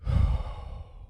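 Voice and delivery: long breathy sigh; exasperated sigh. Real, not acted. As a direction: let out a sigh of frustration. Baffled by failed recording.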